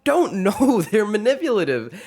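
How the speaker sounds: high, worked-up rant; excited rant. Real, not acted. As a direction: get fired up about it.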